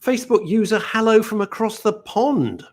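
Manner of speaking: high, lilting put-on voice; mock posh greeting. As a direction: read it out in a twee voice. Reading a viewer comment aloud.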